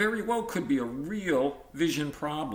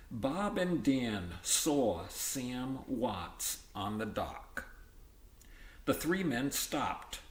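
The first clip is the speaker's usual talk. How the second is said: slow, careful dictation read; teacher dictating a story to the class; story read to children; much slower than usual. Acted. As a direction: read it slowly so kids can copy. Reads story to pupils.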